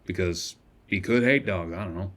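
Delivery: gruff shopkeeper voice. Acted. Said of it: "doing this voice is shredding my vocal cords".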